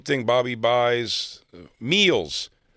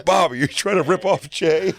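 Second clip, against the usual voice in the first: imitating an accusing mob, higher-pitched; mock-outraged accusation; coming down on him; 7 semitones higher, 4 dB louder than usual. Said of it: "they came down on him".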